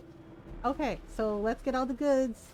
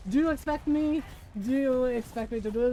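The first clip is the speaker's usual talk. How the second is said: mock Bond villain. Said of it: "this is like".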